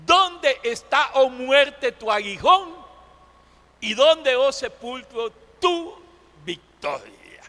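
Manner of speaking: mildly defiant, measured rhetorical question; preacher's taunt with a falling close; defiant challenge. Acted. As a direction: challenge death, letting the last words fall away. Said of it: "la pregunta desafiante del apóstol Pablo".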